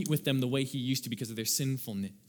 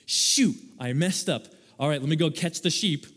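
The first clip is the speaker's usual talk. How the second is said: mock dismay; 3 dB louder than usual. Imagined sinner caught out, retold.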